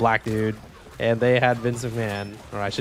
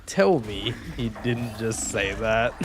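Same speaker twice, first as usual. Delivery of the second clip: stunned Booker T; slower than usual. Retold or imitated. Booker T's stunned reaction retold.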